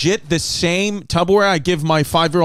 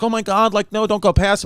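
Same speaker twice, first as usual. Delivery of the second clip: imitating scared daughter; 3 semitones higher than usual. Parent quoting daughter near a car fire, mildly scared. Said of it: "mad scared".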